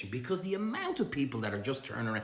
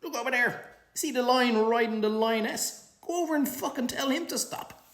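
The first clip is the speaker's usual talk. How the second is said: mocking taunt; 13 semitones higher, 5 dB louder than usual. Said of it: "and go".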